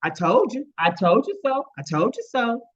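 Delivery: mild mock yell. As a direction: imitate a mother yelling without full volume.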